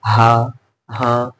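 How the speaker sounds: slow, drawn-out haan, as when someone calls you; answering a call. Shown as a demonstration. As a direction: answer हाँ as if someone just called your name. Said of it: "किसी ने हमें आवाज दिया".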